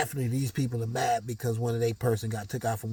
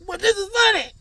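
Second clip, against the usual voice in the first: high mock giggle; 11 dB louder than usual. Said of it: "I'm like".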